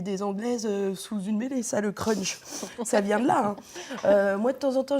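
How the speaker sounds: speaking around a mouthguard; wearing a mouthguard. Real, not acted. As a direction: mouthguard in, words muffled. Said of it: "je vais parler normalement quand même".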